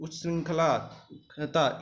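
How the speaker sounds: उच्च श्रृंखलाता dragged out slowly; slow careful word. Shown as a demonstration. Teacher stumbling over a hard word, slow. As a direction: struggle through उच्च श्रृंखलाता syllable by syllable. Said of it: "सही से pronunciate नहीं कर पा रहा हूँ".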